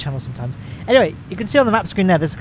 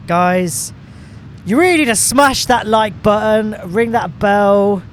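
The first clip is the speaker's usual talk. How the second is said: YouTuber call to action; 4 semitones higher, slower than usual. Pretend. Gamer parodying YouTubers asking viewers to like, hammed-up pitch. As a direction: sell the like button like a cheesy YouTuber. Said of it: "is there a way that YouTubers say that?".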